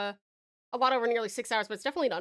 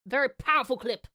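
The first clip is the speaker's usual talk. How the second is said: mock awe. Mock praise of a clip.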